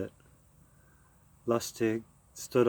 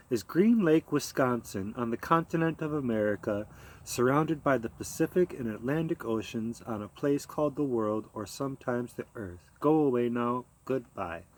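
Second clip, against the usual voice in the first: put-on as to a child. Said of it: "as if she were addressing a child".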